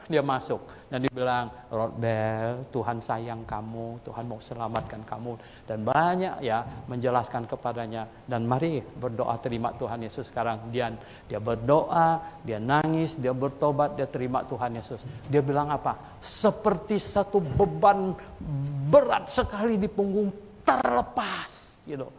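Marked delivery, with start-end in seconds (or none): 1.7-5.3 softer and slower, gently pleading; tender plea. Retold or imitated. Pastor's wife urging the thug to accept God, tender and slow. 16.2-21.8 slow, lifted voice of release; relieved. Retold or imitated. Convert telling how his burden lifted, slow and relieved.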